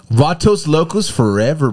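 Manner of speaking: hammed-up Chicano gang accent. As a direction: draw out Vatos Locos in a Chicano accent. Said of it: "Chicano accent".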